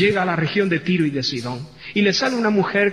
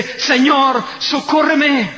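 high, loud cry for help; desperate plea; 6 semitones higher, 4 dB louder, much slower than usual. Acted. Kneeling mother begging Jesus for help, loud high cry. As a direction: throw yourself at his feet and beg. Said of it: "se tira a los pies de Jesús y le dice".

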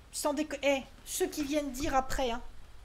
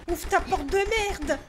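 slow, louder, furious command; angry yell; 2 semitones higher, 6 dB louder, slower than usual. Real, not acted. Exasperated player yelling at the stuck door, slow and angry. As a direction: spit it out at the door, fed up.

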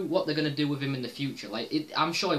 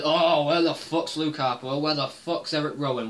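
mock self-complaint; 4 dB louder than usual. Vlogger mocking his own gripe to viewers, mock whine. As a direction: parody his own whining about missing wrestlers. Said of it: "I was bitching and moaning".

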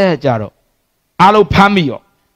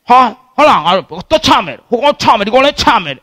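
mock gang bravado; 3 semitones higher than usual. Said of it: "ငါတို့သွားချမယ်တဲ့".

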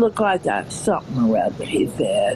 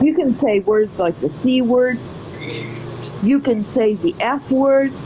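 southern lady. Acted. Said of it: "my southern accent".

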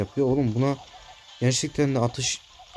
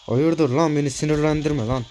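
angry; 4 semitones higher, 4 dB louder than usual. Real, not acted. Threatening enemy player.

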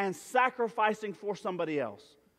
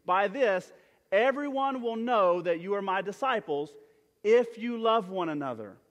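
a touch louder, leading the church in reading; scripture read aloud; 3 dB louder than usual. Shown as a demonstration. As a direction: lead the congregation through the verse together. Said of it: "You guys say it with me".

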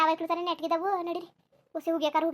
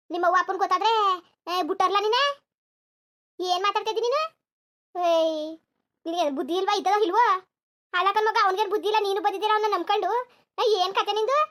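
angry scolding; 5 dB louder than usual. Acted. Grandmother scolds the grandson.

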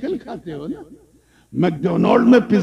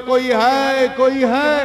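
higher, raised call into the orchard; calling out loudly; 6 semitones higher than usual. Retold or imitated. Youth calls into the garden, loud hail. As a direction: call out for whoever is there. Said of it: "زور سے بولا".

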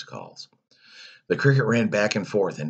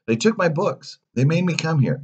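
put-on high, loud childish protest; worked-up boy telling lies; indignant fibbing; 11 semitones higher, 5 dB louder than usual. A narrator's reading. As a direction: complain loudly as you make it up. Pinocchio piling up lies.

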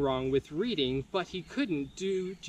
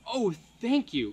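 grateful cry; 4 semitones higher than usual. Acted. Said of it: "cried the griffin".

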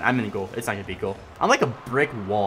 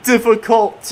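loud, higher, groaning complaint; exasperated yell; 7 semitones higher, 6 dB louder than usual. Real, not acted. Gamer scolding his teammate for the miss, exasperated yell. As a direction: vent the frustration out loud.

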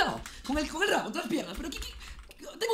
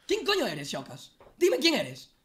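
angry demand; 3 semitones higher, much slower than usual. Real, not acted. Confronting Shokas on stream.

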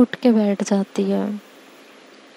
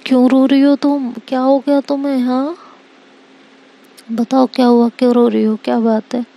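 worried; 2 semitones higher, 4 dB louder, faster than usual. Acted. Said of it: "बिल्कुल परेशान हो जाती है".

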